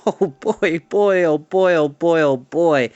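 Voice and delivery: weeping with happiness. Acted. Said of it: "exhausted and weeping with happiness".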